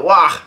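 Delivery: half-hearted cry of alarm; mock yell. A narrator's reading. Somebody cries out in the battle, mock yell. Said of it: "somebody yells out".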